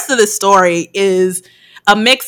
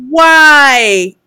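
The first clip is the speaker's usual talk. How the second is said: shocked why; 4 semitones higher, 6 dB louder than usual. Retold or imitated. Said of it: "I was like".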